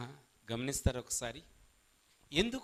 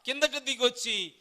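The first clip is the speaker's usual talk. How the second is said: slow, loud, higher mock pleading; mock prayer to Baal; 5 semitones higher, 7 dB louder, slower than usual. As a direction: ham up the prophets begging Baal. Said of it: "ప్రార్థన చేస్తున్నారండి". (బయలు ప్రవక్తల ఎగతాళి ప్రార్థన)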